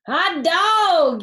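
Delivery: high, loud whoop of glee; excited yell. A narrator's reading. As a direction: shout it like wild kids cutting loose. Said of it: "yelled the Lang kids".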